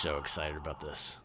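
breathy whisper, almost voiceless. Real, not acted. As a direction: whisper it close to the mic. Whispered aside.

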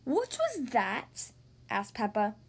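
put-on lively read-aloud for little kids; storybook narration. A narrator's reading. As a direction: read it like bedtime story time. Reads picture book aloud.

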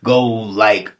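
hammed-up complaint to the dream; mock plea. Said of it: "But I'm like".

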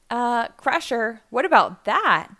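nervous warning; worried warning. Acted. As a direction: warn a friend that trouble is coming. Pickle warns of incoming machine.

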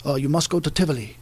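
imitating a Danish host's accent; lightly attempted Danish accent. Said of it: "That's my best Danish accent".

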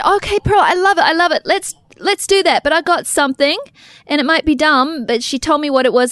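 lively high retelling of a friend's words; imitating Serene. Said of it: "But then Serene said".

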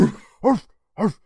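high yappy little dog; yappy chihuahua voice. Retold or imitated. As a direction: yap like a tiny dog. Imitating the dog, Elvis.

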